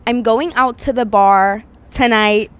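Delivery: slow, effortful American accent. Shown as a demonstration. Retrying after criticism, slow American accent. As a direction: lay on an American accent carefully. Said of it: "can you do your American accent".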